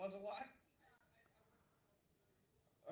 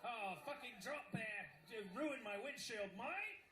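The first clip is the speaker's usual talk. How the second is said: bad Australian accent; 3 semitones higher than usual. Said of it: "That's the worst accent ever".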